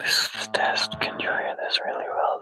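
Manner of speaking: hushed, whispered. Testing a live stream mic, checking if viewers can hear; whispering. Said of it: "The whispering and stuff".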